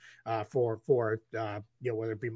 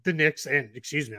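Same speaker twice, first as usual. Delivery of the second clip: hiccups. Real, not acted. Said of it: "I'm getting the hiccups".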